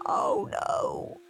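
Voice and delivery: breathless high whispered alarm; panicked whisper. A narrator's reading. Henry hearing his parents coming, panicked whisper.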